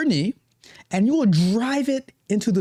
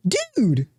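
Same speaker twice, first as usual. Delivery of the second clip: whiny protest; 8 semitones higher than usual. Retold or imitated. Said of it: "you get like".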